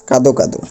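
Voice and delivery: কাদো কাদো, each word closing on o; final o sound. Shown as a demonstration. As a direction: say কাদো কাদো with both final vowels voiced. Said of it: "উচ্চারণটা কী হবে". (দুটোরই শেষে ও: কাদো কাদো)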